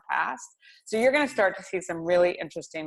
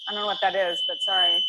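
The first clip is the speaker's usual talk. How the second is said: shouting over fire alarm; 2 semitones higher, faster than usual. Real, not acted. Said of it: "I've got a fire alarm going off".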